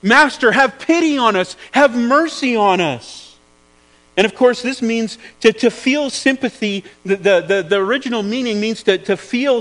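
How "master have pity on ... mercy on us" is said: raised, begging call, slowing at the end; pleading cry. Acted. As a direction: ten lepers calling out to Jesus, raised and begging. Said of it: "they were yelling at the top of their lungs".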